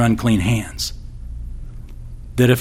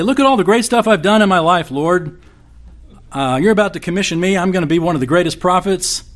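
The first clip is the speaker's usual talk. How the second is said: mock boast; 6 semitones higher than usual.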